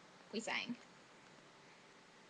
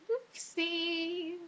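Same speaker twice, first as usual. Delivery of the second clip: high, soft little oops; sheepish oops; 6 semitones higher, 8 dB quieter than usual. Retold or imitated. Student caught swearing in front of everyone, sheepish oops. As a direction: let it out small and drawn out. Embarrassed after swearing aloud.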